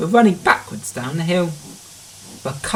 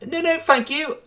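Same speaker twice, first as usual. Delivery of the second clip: proud refusal; 13 semitones higher than usual. A narrator's reading. James proudly declines help.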